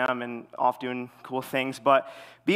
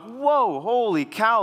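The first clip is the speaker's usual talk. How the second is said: high-pitched mock shock; acted startled reaction, pitched way up; taken aback; 8 semitones higher, 4 dB louder, much slower than usual. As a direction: recoil from being yelled at. Recoils from sister's yell.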